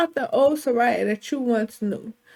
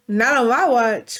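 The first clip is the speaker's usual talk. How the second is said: protective declaration; 6 dB louder than usual. Acted. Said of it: "what did he say".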